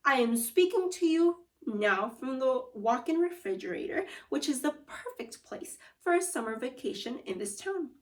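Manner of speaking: a hint of a proud cook showing off his kitchen; cheerful food wizard. Food wizard boasting to the kids about his fridge, lightly voiced.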